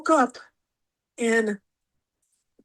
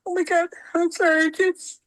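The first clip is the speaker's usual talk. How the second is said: real tearful, higher-pitched voice; holding back tears; 5 semitones higher than usual. Real, not acted. Guest apologises to host over a beloved star's death, holding back tears. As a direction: choke up while apologising. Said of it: "can't talk about this without crying".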